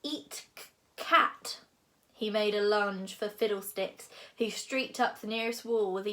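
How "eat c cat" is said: airy, high hiss with a punched last word; hungry dragon. A narrator's reading. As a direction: hiss it like a little dragon eyeing prey. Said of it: "said Toothless".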